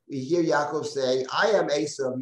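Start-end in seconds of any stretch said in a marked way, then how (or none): 1.3-2.2 a firm stress on "I"; emphatic "I am". Acted. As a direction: lean on "I" in declaring who you are. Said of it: "not the emphatic. So over here".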